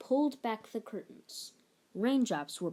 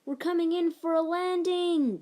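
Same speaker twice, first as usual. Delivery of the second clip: calling captain; 9 semitones higher, 6 dB louder than usual. A narrator's reading. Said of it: "called Captain Little Bill".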